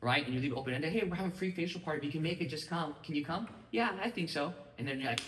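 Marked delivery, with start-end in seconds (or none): 0.9-3.5 breezy, quick, higher, offhand invitation; casual invite. Retold or imitated. A host casually inviting a friend to a facial party. 3.7-4.5 higher, noncommittal easy agreement; a lightly voiced friend giving a loose maybe; vague yes. A friend answering the casual invite, breezy and vague.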